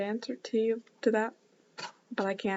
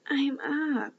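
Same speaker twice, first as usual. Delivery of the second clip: mild yell; 5 semitones higher, 3 dB louder than usual. Acted. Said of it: "I yell back".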